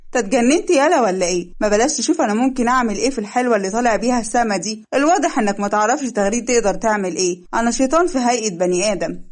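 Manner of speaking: a touch of a furious stepmother threatening; mild menacing anger. Acted. Stepmother threatens Leil over his marriage, mildly menacing.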